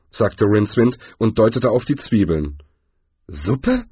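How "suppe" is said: „Suppe?“ mit steigender, ungläubiger Frage; „Suppe?“ verwundert nachfragen. Acted. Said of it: "wiederholte der Troll". („Suppe?“ ungläubig fragend)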